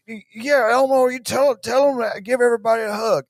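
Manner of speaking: mock Biden talking sweetly to Elmo; imitating Joe Biden. Mocking Biden coaxing Elmo, high and gentle. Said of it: "Joe Biden being like".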